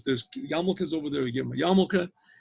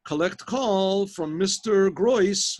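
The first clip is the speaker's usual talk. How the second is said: telephone operator; 4 semitones higher, 4 dB louder, much slower than usual. Retold or imitated. Telephone operator announces a call.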